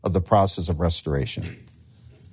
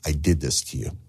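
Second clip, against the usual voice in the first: apology to wife; 2 semitones lower than usual. Retold or imitated. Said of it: "go back to your wife and say".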